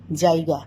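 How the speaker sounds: জায়গা with a clear জ and আ; correct জায়গা. Shown as a demonstration. Teacher showing listeners how to say জায়গা, deliberately. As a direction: spell out জায়গা carefully, low and falling. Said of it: "বর্গীয় জয়ে আকার".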